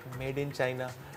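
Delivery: barely audible, very quiet hushed mutter. Acting out a shopkeeper saying it, in a soft, low tone. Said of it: "वो धीमे लहजे में कहता है कि".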